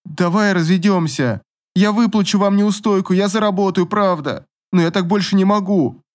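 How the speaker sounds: wife begging husband through door, tearful and high; tearful outburst. A narrator's reading. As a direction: cry out in despair.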